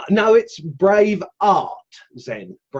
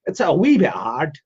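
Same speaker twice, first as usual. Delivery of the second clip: half-hearted mock Scottish accent; attempted Scottish lilt. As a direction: have a jokey go at a Scottish accent. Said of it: "can't even do a Scottish accent".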